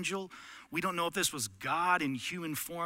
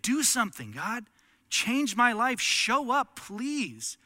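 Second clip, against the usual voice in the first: loud, higher begging cry to God; desperate plea; 7 semitones higher, 7 dB louder, slower than usual. Retold or imitated. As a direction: beg God to show up, voice straining. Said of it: "the statement".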